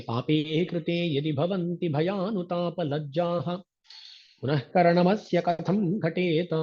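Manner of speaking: slow, measured Sanskrit chanting; shloka recitation. Acted. Teacher reciting Varavaramuni's verse, slow chant. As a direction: recite the verse with steady reverence.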